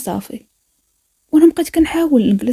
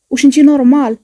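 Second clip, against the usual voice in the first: louder, accusing snap; angry outburst; 3 semitones higher, 6 dB louder than usual. Acted. Captor loudly accusing the dancer who haunts him. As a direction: throw the question at her in anger.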